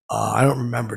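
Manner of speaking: usual speaking voice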